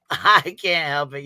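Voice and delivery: real helpless laughter running into the words; cracking up. Real, not acted. Streamer cracked up by her own impression, laughing helplessly. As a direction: slowly squeeze the words out through laughter. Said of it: "That shit fucking cracks me up".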